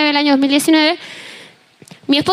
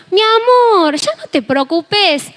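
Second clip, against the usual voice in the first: consuelo imitado; 3 semitones higher, much slower than usual. Retold or imitated. Husband reassuring her, retold.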